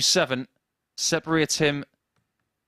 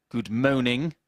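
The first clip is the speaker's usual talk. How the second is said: mock French accent, rising; a hint of a French policeman; Allo Allo French policeman; slower than usual. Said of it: "the French policeman who couldn't speak French".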